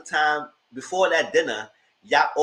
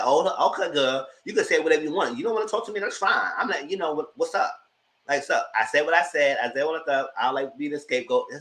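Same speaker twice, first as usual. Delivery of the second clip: imitating Sutton; 3 semitones higher than usual. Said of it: "and Sutton said".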